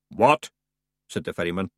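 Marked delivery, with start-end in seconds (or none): 0.1-0.5 startled. Acted. Ferryman startled.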